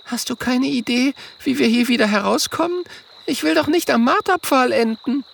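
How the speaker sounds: put-on very high, hurried worried girl; anxious plea. Mathilda fleht Kokosnuss an. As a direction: plead nervously.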